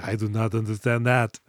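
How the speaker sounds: lightly mimicked robot voice; a mild impression of an uncomprehending machine; Terminator. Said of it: "And the Terminator's like".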